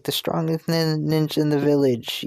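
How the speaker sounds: Naruto. Acted. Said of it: "Naruto says".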